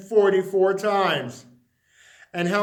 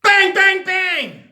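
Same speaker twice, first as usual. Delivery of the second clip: shouted, much higher bangs; loud knocking; 11 semitones higher, 10 dB louder, slower than usual. A narrator's reading. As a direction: bang it out like pounding on a door.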